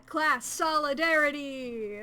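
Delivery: slow, loud rallying cry breaking into a high laugh; excited cheer. Real, not acted. Cheering class solidarity with the mercenary, loud then laughing.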